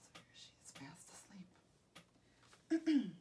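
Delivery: very soft whispered aside; hushed whisper. Pretend. Narrator shows children sleeping Goldilocks, whispering. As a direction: whisper so as not to wake her.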